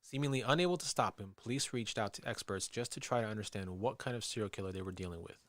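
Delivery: measured documentary storyteller read; true-crime narration. A narrator's reading. Host reads listeners the police profile of a killer, measured narration. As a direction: narrate the case evenly.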